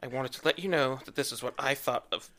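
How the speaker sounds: lightly voiced angry teen; a hint of a ranting teen fan. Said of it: "teenage Twihard voice".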